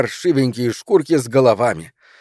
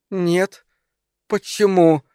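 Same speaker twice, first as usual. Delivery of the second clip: high, halting, understated dismay; forced out; 6 semitones higher, slower than usual. A narrator's reading. Wife hides dismay from husband, forcing out a high reply. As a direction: squeeze the words out, high and hesitant. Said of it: "выдавила она".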